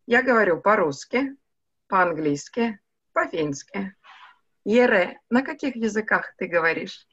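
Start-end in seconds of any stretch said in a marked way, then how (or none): none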